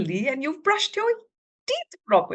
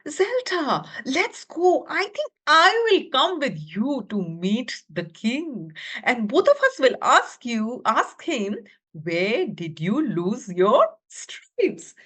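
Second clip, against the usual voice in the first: friend voice. Acted. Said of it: "this one said".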